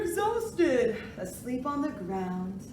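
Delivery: sing-song picture book reading; reading to a toddler. Acted. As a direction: read it gently to little kids. Reads alphabet book aloud.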